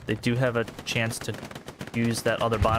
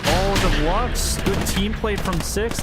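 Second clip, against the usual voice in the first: excited; 8 semitones higher, 4 dB louder, slower than usual. Real, not acted. Caster hypes big play.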